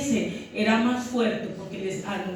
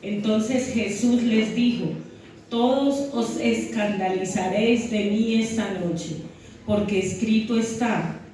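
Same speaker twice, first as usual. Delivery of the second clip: scripture reading. Acted. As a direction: read the passage solemnly to the church. Reads scripture aloud to congregation. (lectura bíblica pausada y solemne)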